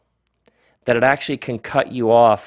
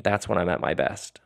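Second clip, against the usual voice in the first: whispered quote; 4 semitones lower, 7 dB quieter than usual. Retold or imitated. Quoting the nurse softly.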